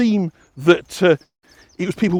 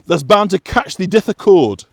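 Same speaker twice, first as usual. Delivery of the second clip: slow West Yorkshire dialect, "thee death" said broad; lightly voiced West Yorkshire warning; West Yorkshire accent; 3 semitones higher, 4 dB louder than usual. Shown as a demonstration. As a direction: warn in old Yorkshire dialect. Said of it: "an authentic West Yorkshire".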